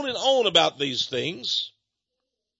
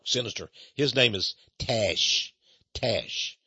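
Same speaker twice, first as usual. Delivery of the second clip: ominous; 8 semitones lower, slower than usual. Pretend. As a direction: say sinister like a spooky secret. Preacher spooks about the villain.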